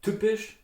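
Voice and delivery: Typisch with a hard Standard German T and P; hard consonants. Shown as a demonstration. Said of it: "the hard consonants".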